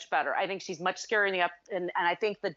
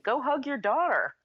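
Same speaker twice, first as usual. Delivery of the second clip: film quote, husband; 6 semitones higher than usual. Retold or imitated. Acts out husband's line from scene.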